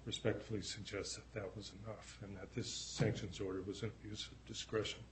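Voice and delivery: hoarse voice fading as it goes; voice giving out. Real, not acted. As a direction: voice cracking and giving out. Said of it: "I'm losing my voice".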